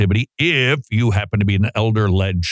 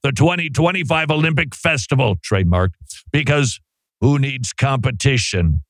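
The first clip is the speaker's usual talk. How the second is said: sports announcer hype. Acted. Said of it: "it says announcer over the top sports hype tone".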